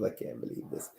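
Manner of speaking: breathy whispered aside; whispering. Real, not acted. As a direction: whisper it to yourself. Whispered aside while hiccuping.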